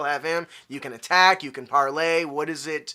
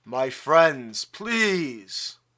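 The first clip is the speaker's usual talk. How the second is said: put-on rumbling voice, old yet firm. Narrator reads the voice from beyond the altar addressing the crowd: deep rumbling voice. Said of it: "You hear a deep rumbling voice".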